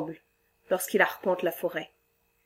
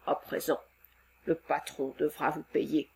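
much lower, quiet creature lament; lower, soft sad monster; 5 semitones lower, 7 dB quieter than usual. Acted. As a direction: grieve for his forest home. Monster reassuring.

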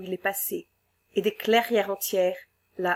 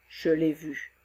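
deep monster voice; 4 semitones lower, 3 dB quieter, slower than usual. Acted.

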